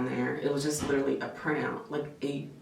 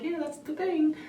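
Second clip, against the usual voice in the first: playful confirmation; 13 semitones higher than usual. Retold or imitated. Couple answers husband.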